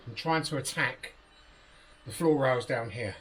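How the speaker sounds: breathless, puffing between words; winded from working under the van; out of breath. Real, not acted. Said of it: "I'm out of breath".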